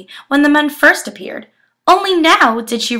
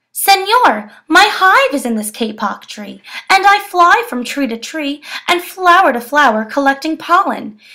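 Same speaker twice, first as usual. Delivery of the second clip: bright, busy bee voice; a lively little bee explaining; buzzing bee; 2 semitones higher than usual. Acted. Bee character speaks.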